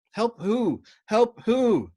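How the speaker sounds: loud, high demanding yell; urgent shout. Acted. Yossarian yells to Dobbs, urgent. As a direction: shout the question back. Shouting over intercom in combat.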